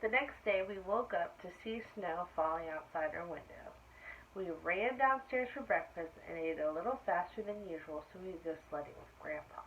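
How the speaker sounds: put-on lively read-aloud for children; animated story reading; storybook narration. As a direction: tell it like a bedtime picture book. Reads picture book aloud.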